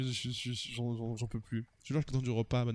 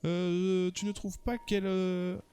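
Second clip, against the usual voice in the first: theatrical romantic hero telling his tale; dreamy character voice, measured delivery; lovestruck suitor; 5 semitones higher than usual. Acted. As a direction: play an earnest, smitten admirer.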